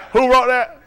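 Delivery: high, loud, through laughter; cracked up and incredulous; amused disbelief. Real, not acted. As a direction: burst out laughing as you ask. Mocking a wrong answer.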